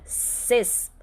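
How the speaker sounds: ces set apart with long s sounds; stressed syllable alone. Shown as a demonstration. Teacher points out the tonic syllable, ces said emphatically. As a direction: isolate ces as the strong syllable. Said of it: "a sílaba tônica é a segunda".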